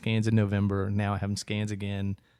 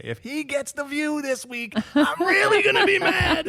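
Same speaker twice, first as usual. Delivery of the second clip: mock outraged outburst; 5 dB louder than usual. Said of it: "jump up again and say".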